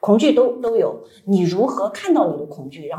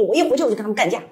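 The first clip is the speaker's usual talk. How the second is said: fast retort; 2 semitones higher, much faster than usual. Retold or imitated. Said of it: "你说".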